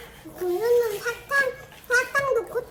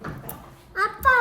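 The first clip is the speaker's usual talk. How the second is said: long drawn-out call; 2 semitones higher, much slower than usual. Real, not acted. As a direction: stretch the word calling dad. Calling dad, long drawn out. (길게 부르며)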